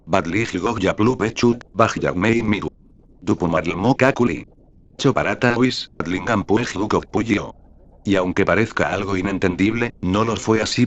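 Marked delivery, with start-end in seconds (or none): 0.1-7.6 alien language. Retold or imitated. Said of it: "me respondieron".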